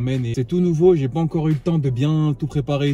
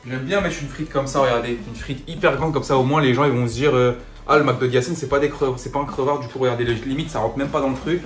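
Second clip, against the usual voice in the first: excited; 6 dB louder than usual. Real, not acted. Excited showing giant fry.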